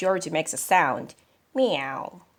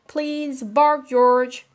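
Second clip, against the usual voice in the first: higher, louder coaxing command; vet's request; 6 semitones higher, 7 dB louder, slower than usual. Acted. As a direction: coax the dog firmly. Vet asks George.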